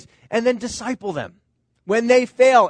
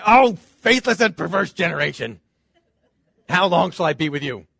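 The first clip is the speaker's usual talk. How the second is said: a fed-up scolding, half amused; exasperated rebuke; 3 semitones lower than usual. Retold or imitated. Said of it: "Does Jesus say".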